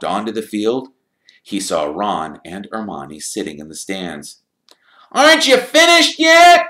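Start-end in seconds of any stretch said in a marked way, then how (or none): 5.1-6.7 very high, loud disbelieving question; incredulous shout across a stadium; incredulous call. A narrator's reading. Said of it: "called Ron incredulously".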